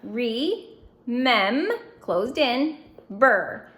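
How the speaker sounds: Re, mem, burr read as separate parts with pauses between; syllable by syllable. Shown as a demonstration. Teacher reading each syllable part to students. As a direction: sound out each piece on its own beat. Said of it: "Let's read each syllable part".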